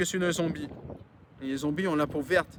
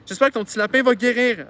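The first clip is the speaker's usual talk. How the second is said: high, loud call across distance; yelled well-wish; 5 semitones higher, 8 dB louder than usual. Acted. Driver to the little girl, yelling. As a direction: yell it out to a child, raised pitch. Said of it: "a-t-elle hurlé à la gamine".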